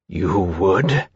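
low, distressed question; trembling. A narrator's reading. Temeraire confronts Lawrence in distress, voice trembling. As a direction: ask with hurt, wrathful disbelief. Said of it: "And his voice was trembling".

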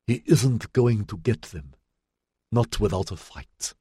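lightly voiced frail elder; frail old woman. A narrator's reading. Frail Triumvir defiant.

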